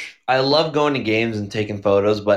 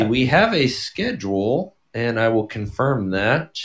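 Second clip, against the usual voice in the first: announcer voice; 4 semitones higher than usual. Pretend. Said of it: "I'm gonna turn on my little announcer voice here".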